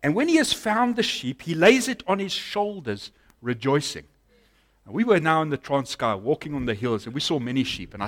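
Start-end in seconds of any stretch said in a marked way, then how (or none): 0.0-4.1 raised, emphatic Bible reading; Scripture reading. Acted. Preacher reads the parable verse to congregation, emphatic reading. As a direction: proclaim the verse, settling at the end.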